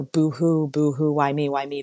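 hammed-up self-pitying whine; mock whining victim. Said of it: "victim mode".

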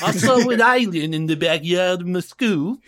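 mock South African accent. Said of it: "Is that a South African accent?".

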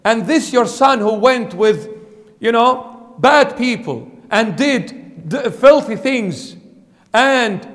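sulky, aggrieved grumbling, a touch hammed-up; whinging older son. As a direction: play the resentful son who feels overlooked. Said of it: "he started whinging".

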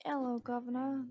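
playful British Hello, governor; British accent. Pretend. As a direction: echo in a cockney accent.

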